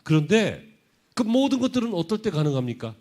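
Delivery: high, loud rhetorical question; impassioned preaching. Real, not acted. Preacher challenging the congregation with a question, impassioned preaching. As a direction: throw the question out with full force.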